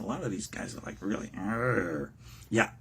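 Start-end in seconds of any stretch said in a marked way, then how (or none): 1.4-2.1 low throaty growl; mock warrior's "arr". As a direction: growl like a fierce ancient chief. Imitating fierce leaders' growl.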